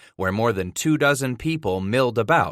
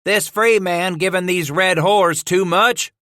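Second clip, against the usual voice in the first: high, loud rough trapper voice; grumbling trapper; 8 semitones higher, 5 dB louder than usual. Acted. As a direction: sneer it out loud. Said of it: "grumbled another".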